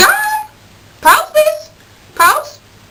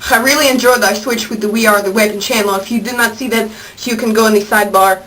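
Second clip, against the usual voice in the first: put-on Russian accent, resumed; 4 semitones lower than usual. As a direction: pick the fake Russian accent back up. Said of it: "Where's my accent?".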